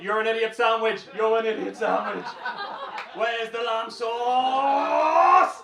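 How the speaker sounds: loud berating kitchen rant, building to a drawn-out bellow; hammed-up furious chef shouting; angry head chef. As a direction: bawl out the junior staff, stretching the last word into a roar. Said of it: "I just know that's how he talks".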